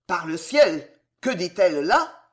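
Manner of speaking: plus fort, scandalisé; lance-le, stupéfait et indigné; exclamation outrée. Acted. Le connétable outré s'exclame. (le connétable outré par l'insulte)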